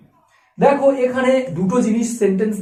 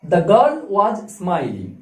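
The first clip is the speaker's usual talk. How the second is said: slow dictation; 2 semitones lower, much slower than usual. Shown as a demonstration. Teacher reads example sentence.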